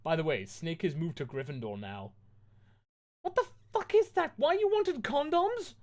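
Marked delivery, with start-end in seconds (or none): 3.2-5.8 far higher, louder mock-cruel squeal; hammed-up gloating taunt; asked sadistically. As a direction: narrator taunting Lupin sadistically. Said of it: "I asked it sadistically".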